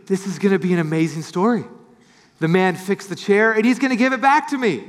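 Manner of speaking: quick, eager inner thoughts; excited. Retold or imitated. John imagining getting the chair back, fast and eager. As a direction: rush it out with eager hope. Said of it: "got so excited".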